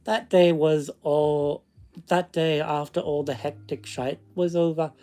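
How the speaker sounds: storytelling in a put-on Scottish accent; fake Scottish accent. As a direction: read it aloud with a mock Scottish lilt. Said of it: "read it in the accent".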